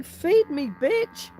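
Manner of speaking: a playful voiced-over animal, high and pushy; voicing the hungry animals. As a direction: put words in the cows' mouths, cheeky and shrill. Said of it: "Oh, they're saying".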